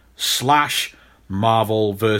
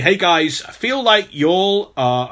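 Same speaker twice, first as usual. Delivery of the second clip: a hint of an American accent, pitched higher and a bit slower; American accent attempt; 5 semitones higher than usual. Shown as a demonstration. Reading a listener's message aloud, in a half-hearted American accent. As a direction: start Cody's message in a light American accent, then abandon it. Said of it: "I wanna say y'all in an accent".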